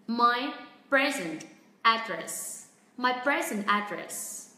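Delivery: slow model phrase, "present" as PREZ-ent; stress on first syllable. Shown as a demonstration. Teacher models the phrase for learners, slow PREZ-ent in "present". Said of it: "trọng âm vẫn rơi vào âm tiết thứ nhất".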